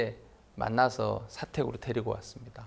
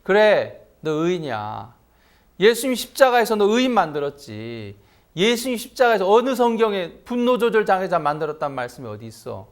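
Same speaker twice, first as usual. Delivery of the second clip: higher, louder scolding rebuke; stern rebuke; 6 semitones higher, 9 dB louder than usual. Retold or imitated. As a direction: preach the rebuke right at him. Pastor rebukes student, preaching force.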